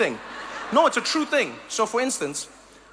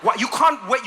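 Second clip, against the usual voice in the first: ordinary talk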